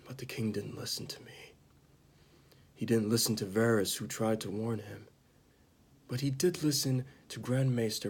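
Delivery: lightly acted bitter confession, with long pauses; acted Jaime Lannister. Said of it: "I'm gonna perform it right now".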